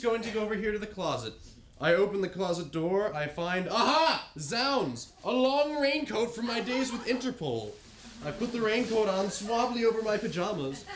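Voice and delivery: grand mock-heroic narrator voice; theatrical adventurer describing his getup; hammed-up self-narration. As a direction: play the swashbuckling hero narrating. Husband hams up narrating himself.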